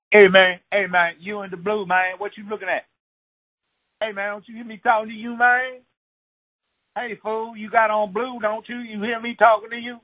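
high, pushy street tough calling out; high-pitched tough hassling a stranger. Retold or imitated. Street tough picking a fight.

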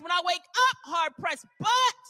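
shouted, rising preaching cadence. Real, not acted. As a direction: call it out to the congregation. Preaching at full force.

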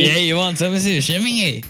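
high mock Swedish accent; mimicked Swedish accent. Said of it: "the Swedish accents".

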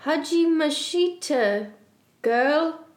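high, slow, cheerful singsong; lightly acted perky greeting; happy greeting. A narrator's reading. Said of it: "she said happily".

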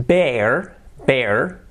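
"bear" as one syllable, "bair", rising; careful pronunciation. Shown as a demonstration. Teacher modelling the word for learners, "bear" as "bair", rising. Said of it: "Cuidado la pronunciación".

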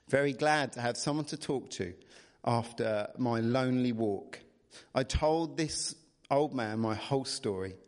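measured bedtime-story reading; storybook narrator; story narration. A narrator's reading. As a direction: read the tale aloud expressively. Reads the story aloud.

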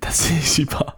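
whispered echo. Retold or imitated. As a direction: whisper it back. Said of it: "You've been around me too long".

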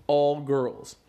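loud hype callout; calling out. Acted. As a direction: shout it to the dance floor. Rap callout to girls.

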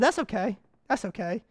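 soft reassuring hush; calm the startled students, softly. Retold or imitated. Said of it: "I said".

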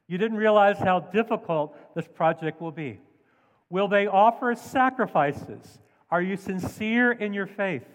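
a mild mocking taunt, lightly voiced; sarcastic scorn. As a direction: toss the questions out with a hint of scorn. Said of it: "Do you hear the sarcasm, the scorn".

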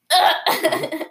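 short throaty attempted burp sound; imitated little-kid burp noise; fake burp. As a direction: force out a pretend burp. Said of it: "I tried to make a burp sound".

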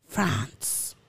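French-accented place names; a light French accent on the names. Shown as a demonstration. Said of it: "I said it in a French accent".

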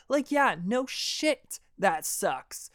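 sarcastic. Real, not acted. Sarcastic reply to the kid.

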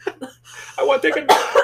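high, slow, loud whine; whiny girl voice. Retold or imitated. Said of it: "that girl on the internet".

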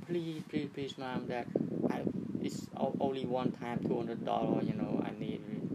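mock whiny kid begging for concert money; imitating a begging teen. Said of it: "So she or he keep begging".

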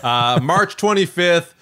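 hammed-up podcast plug; promo announcer. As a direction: sell the next episode like a radio promo. Announcement continues.

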